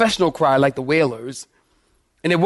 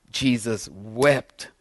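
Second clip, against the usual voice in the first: hushed and slow; 6 semitones lower, 6 dB quieter, much slower than usual. Acted. Preacher reads verse, hushed.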